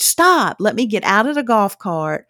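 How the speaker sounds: calling out stop. Retold or imitated. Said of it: "And I was like".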